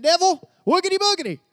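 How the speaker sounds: high, loud silly ghost-story voice; mock spooky taunt. Preacher mocking a weak rebuke, silly spooky voice. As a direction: scare the devil like a kid with a sheet. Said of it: "there's no authority in that".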